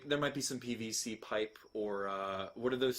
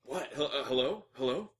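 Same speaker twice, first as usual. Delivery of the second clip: groggy voice. Acted. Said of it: "you hear the groggy voice".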